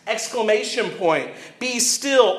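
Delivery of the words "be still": mild acted yell, pitched up; firm, raised-pitch rebuke. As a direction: command it like all caps. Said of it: "all caps, exclamation point".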